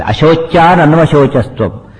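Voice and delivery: slow, measured Sanskrit recitation; verse recitation. Shown as a demonstration. Teacher quoting Krishna's first words to listeners, slow recitation. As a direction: draw out each syllable of the verse.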